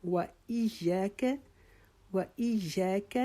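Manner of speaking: و ایاک with rounded lips on و, slow; rounded واو. Shown as a demonstration. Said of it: "اپنے ہونٹ گول کریں".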